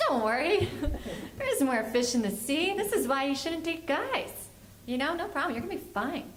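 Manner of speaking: breezily reassuring dad. Retold or imitated. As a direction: brush it off with hammed-up reassurance. Dad breezily consoles crying daughter.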